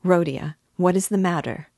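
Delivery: a worried mother begging her son to talk; anxious mother. Acted.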